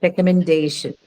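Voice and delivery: recommendation with stress on DAY, falling after. Shown as a demonstration. Teacher confirms the answer, recommendation stressed on DAY. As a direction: put the weight on DAY in recommendation. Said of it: "Day is the syllable that is stressed".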